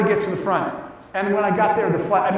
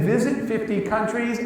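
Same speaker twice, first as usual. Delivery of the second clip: a mild disbelieving question, pitch lifting on visit; asking visit in disbelief at his own reflection; incredulous; 2 semitones higher, 4 dB quieter than usual. Retold or imitated. Man in the mirror, mildly incredulous at "Visit fifty countries?". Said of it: "and I looked myself in the mirror, and I said".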